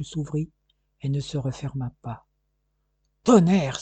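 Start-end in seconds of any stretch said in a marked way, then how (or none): 3.2-3.8 loud startled oath; exclamation. Acted. Police chief seeing the detective die, blurting an oath. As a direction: blurt it out in spite of yourself. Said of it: "s'écria malgré lui".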